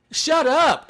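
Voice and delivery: high, exasperated telling-off; mock-outraged and high-pitched; exasperated retort. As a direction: scold an annoying announcer. Fed up with announcer's yelling.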